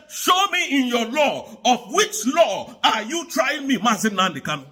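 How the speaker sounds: quoting Kanu's challenge. Retold or imitated. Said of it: "He said".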